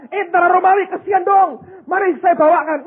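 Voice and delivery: high, loud pretend volunteering; mock eager call. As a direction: call out to the soldiers in a hammed-up plea. Seruan relawan yang dibayangkan kepada tentara. (seruan pura-pura menawarkan bantuan, tinggi dan lantang)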